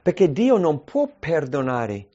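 ordinary delivery

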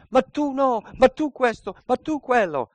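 high, accusing jabs; mock angry retort. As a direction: throw the blame back at the accuser.

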